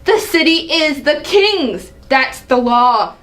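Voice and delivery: scoff, then lay down the law; angry outburst. Acted. King rebuking his son, indignant. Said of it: "Seeing the angry side of her".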